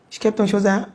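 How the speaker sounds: usual speaking voice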